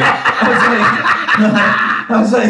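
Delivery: high, laughing through the words; can barely get it out for laughing. Real, not acted. Telling a buddy about his dad, laughing.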